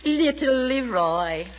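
put-on slow, drawn-out cooing at a child. Guest coos at the boy she calls little Leroy, slow and cooing. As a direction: coo over him like a baby.

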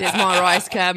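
laughing mock Australian accent; put-on Australian with a chuckle. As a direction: show off a comic Australian accent. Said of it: "my Australian".

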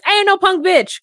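high mocking sassy-friend voice; sassy friend quote. Host teasing the friends' pep talk, high mock sass. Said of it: "these women being like".

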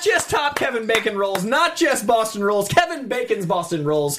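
slow, drawn-out segment title announcement; game-show style title reveal; mock announcer.

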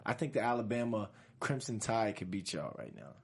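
low, offhand and casual; cool voice. Acted. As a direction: say it like you're too cool to care. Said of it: "I did it in my cool voice".

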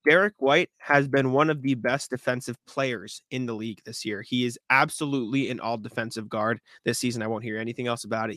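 confident, emphatic declaration; sure-footed proclamation. Real, not acted. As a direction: state it firmly, like a verdict on record. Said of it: "I'm gonna say this with confidence".

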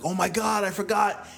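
high-pitched exclamation of dismay; upset with herself. Retold or imitated. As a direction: blurt it out, imitating a kid cross with herself. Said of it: "she's upset with herself".

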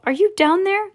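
high questioning call into the depths. A narrator's reading. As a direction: call down to someone far below. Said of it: "shouted Mister Salt".

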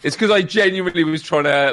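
high giggling, gasping between words; catching breath midword. Real, not acted. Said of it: "It's broken me".

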